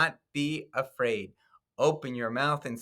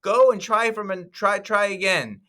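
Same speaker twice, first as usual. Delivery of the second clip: high-pitched, louder cartoon villain pleading; villain Balak; 12 semitones higher, 3 dB louder than usual. Teacher voicing the mean king Balak to second graders, high frantic squeal. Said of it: "And then Balak said".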